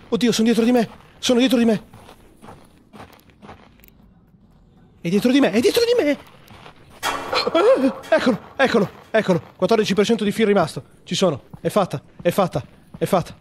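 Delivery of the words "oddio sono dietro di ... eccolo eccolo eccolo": high, panicked cry; being chased. Acted. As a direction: scream as it closes in behind you. Fleeing a creature in game.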